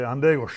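"Andegos" clearly spoken, stress on the first syllable and falling; Ojibwe word. Shown as a demonstration. Elder teaching kids the Ojibwe word for crow. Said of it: "you wanna make fun of them, you say".

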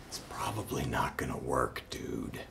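low, soft aside to the screen; muttered aside. Real, not acted. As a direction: drop it low, under your breath.

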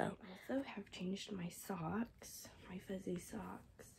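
soft hoarse whisper; voice giving out. Real, not acted. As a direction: voice almost gone. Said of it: "my voice is about shot".

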